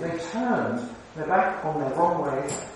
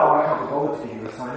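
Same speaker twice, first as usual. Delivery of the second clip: lower, quick throwaway shrug of a line; mock dismissive; 4 semitones lower, much faster than usual. Shown as a demonstration. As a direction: toss it off lazily. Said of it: "It's not that".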